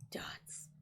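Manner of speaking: faint unvoiced whisper. Raspberry whispering to the player so quietly, unvoiced. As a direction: barely breathe the word. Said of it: "Raspberry whispers so quietly".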